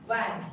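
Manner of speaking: VAN starting with teeth on the lip; "van" with a V, never a W; lip-biting V. Shown as a demonstration. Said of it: "bite it, bite your lips".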